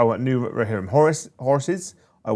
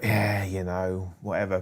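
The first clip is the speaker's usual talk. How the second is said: put-on slow, lazy northern English accent; 2 semitones lower, 3 dB quieter, slower than usual. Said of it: "but in a northern accent".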